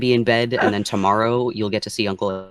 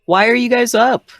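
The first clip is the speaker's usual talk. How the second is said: sweet parent voice; 12 semitones higher, 6 dB louder than usual. Acted. Parent talks to a child.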